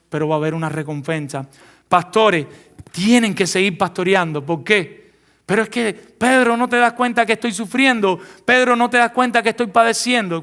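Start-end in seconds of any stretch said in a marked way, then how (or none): 5.5-10.4 higher pleading complaint to Pedro; complaining pastor. Acted. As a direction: plead like a weary pastor asking to be understood.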